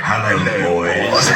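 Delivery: low, slow, sly hello; low slow greeting. Retold or imitated. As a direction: drawl it low and knowing. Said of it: "he's like".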